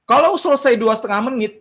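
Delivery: lifted, insistent teacher's emphasis; emphatic. Real, not acted. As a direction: raise the voice to stress the lesson.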